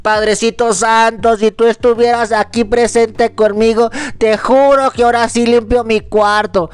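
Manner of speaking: pretend pleading prayer. Grieving child praying for his dead father, mild mock pleading. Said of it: "para tú decir".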